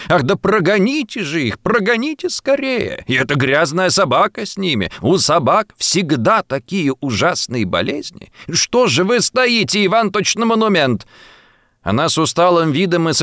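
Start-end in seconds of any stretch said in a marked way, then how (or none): 0.1-11.0 fretful lady. A narrator's reading. Fretful lady orders servants away.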